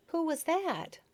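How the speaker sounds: talking through a mouthful; mouth full. Acted. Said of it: "with her mouth still full".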